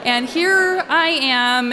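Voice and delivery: chuckling at her own disbelief; laughing. Real, not acted. Mother laughing about being outnumbered by twins.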